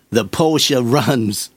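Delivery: slow, drawn-out Texan drawl attempt; lightly imitating a Texan accent, very slow. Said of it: "in this lovely Texan accent".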